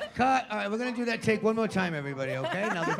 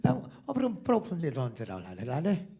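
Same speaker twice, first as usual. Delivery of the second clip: mock Irish accent; 4 semitones lower than usual. Shown as a demonstration. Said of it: "Can I hear the Irish accent?".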